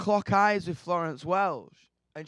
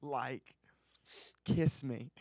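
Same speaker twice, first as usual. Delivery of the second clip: quiet, lovestruck mock gush; softer joking swoon; mock starstruck gush; 4 semitones lower, 7 dB quieter than usual. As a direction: ham up the fan crush softly. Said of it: "I was like".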